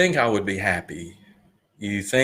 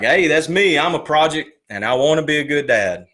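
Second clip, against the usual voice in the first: excited realization; 5 semitones higher, 5 dB louder than usual. Retold or imitated. Excited realization finding the podcast.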